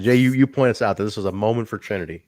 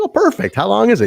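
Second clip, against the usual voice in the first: retold excitement; 8 semitones higher, 4 dB louder than usual. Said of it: "I was like".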